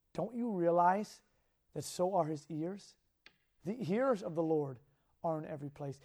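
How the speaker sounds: soft earnest sermon voice; hushed preaching. Acted. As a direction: draw them in quietly.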